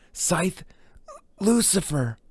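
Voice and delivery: high, full-voiced cry of the title; full title forced out. Brahms forced to say the title, crying it out high.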